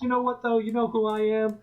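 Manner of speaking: a dad suddenly puffing up with pride; proud Red Guardian. Retold or imitated. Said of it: "he would be like".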